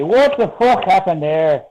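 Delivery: put-on Scottish accent. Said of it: "in Scottish they say".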